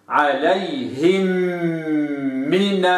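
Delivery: حمي very slow, m sustained; held m. Shown as a demonstration. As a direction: linger on the m. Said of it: "هكذا".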